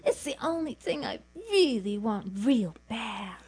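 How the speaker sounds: near tears, begging; whiny pleading. Acted. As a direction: whimper for the coat. Wheedling for fur coat.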